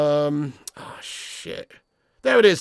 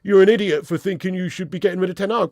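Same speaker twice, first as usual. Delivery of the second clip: mocking critic; 3 dB louder than usual. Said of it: "It triggers me when people say".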